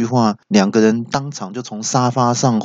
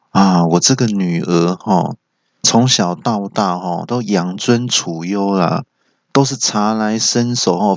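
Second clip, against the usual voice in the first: earnest father-in-law. Acted. Father-in-law entrusts daughter to groom, mildly earnest. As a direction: draw the phrases out earnestly. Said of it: "很语重心长的跟我朋友说".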